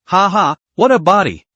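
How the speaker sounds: mocking laugh, then a contemptuous jab; sneering. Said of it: "Tu Li sneered".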